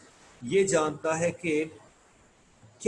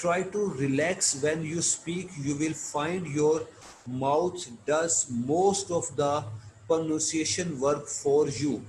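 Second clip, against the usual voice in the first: reading aloud; much slower than usual. Shown as a demonstration. Teacher reads English text slowly.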